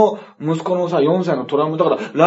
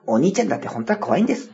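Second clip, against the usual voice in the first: narration impression; 6 dB quieter than usual. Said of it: "ナレーションの真似ね".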